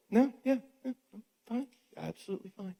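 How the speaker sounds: passive-aggressive fake fine, high and trailing off; mock sulky "I'm fine". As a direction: play the hurt partner insisting all is fine. Mocking the passive-aggressive reply.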